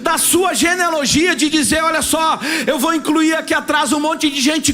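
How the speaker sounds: preaching at full force. Acted. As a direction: drive it home to the congregation, full voice.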